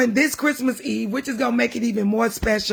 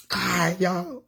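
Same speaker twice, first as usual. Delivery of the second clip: much lower and softer, choked with tears; tearful; 6 semitones lower, 5 dB quieter than usual. Real, not acted. To viewers, worn out from crying, choked up. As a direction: barely get it out through tears. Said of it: "I'm crying only because".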